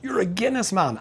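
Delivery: a high, exaggerated viewers' gasp of disbelief; mock viewer surprise. Imagined viewers teasing Dean over his beer, high mock surprise. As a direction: pitch it high like a shocked fan. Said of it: "you'll all be thinking".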